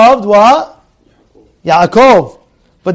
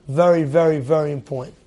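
hushed emphasis; 4 semitones lower, 7 dB quieter than usual. Acted. Teacher stressing importance.

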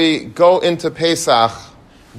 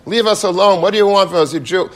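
mock angry retort; 7 semitones higher, 4 dB louder, faster than usual. Husband confronts him in retold quarrel.

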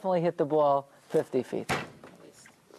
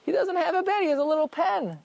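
emphatic contrast; 10 semitones higher than usual. Shown as a demonstration. Teacher stresses the contrast.

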